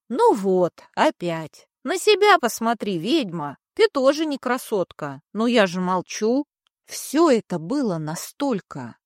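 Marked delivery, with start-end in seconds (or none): 0.1-6.5 grumbling, annoyed creature voice; irritated grumbling stump. Acted. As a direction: grumble it out with a sigh. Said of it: "раздражённо вздохнул и проворчал".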